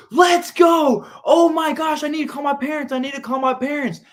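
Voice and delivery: high, loud, thrilled yelling; retelling the moment he got the call; excited shout. Retold or imitated. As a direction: burst out in disbelief and joy. Retold reaction to being cast.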